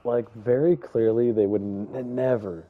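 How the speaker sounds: stuttering with excitement; tripping over the words. Real, not acted. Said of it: "I'm sorry I'm stuttering".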